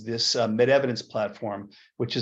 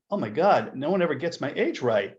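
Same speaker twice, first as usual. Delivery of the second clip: shocked; 4 semitones higher than usual. Retold or imitated. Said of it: "the fellow shocked".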